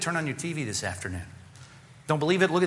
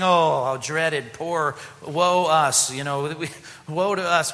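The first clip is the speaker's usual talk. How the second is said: mock lament; 2 semitones higher, 4 dB louder, slower than usual. Mocking self-pity lament.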